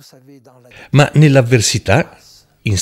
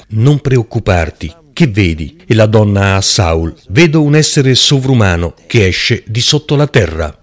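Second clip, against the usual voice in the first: scripture reading. Acted. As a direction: read the passage out to the congregation. Preacher reads scripture aloud.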